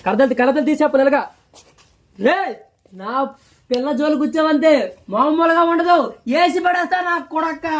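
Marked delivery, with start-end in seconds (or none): 2.2-7.7 slow, deliberate warning; hero threat demo. Shown as a demonstration. Director showing the actor how to threaten the rival. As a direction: menace him over the girl. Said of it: "ఆ type చెప్పు".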